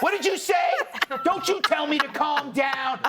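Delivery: imitating an indignant, high-pitched shouted comeback; mock outraged yell. Co-host mimicking a fighting woman told to calm down, mock outraged yell. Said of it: "when two people are yelling".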